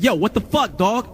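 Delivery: high-pitched, incredulous dude voice; put-on exasperated street talk; outraged label guy. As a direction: imitate an indignant caller. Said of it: "He's a white dude who acts black".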